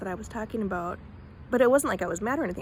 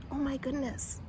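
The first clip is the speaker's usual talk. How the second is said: whispered exclamation; 5 semitones higher, 5 dB quieter than usual. Retold or imitated. Repeat of imitated phrase.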